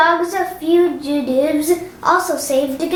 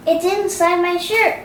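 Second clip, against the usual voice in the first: ordinary delivery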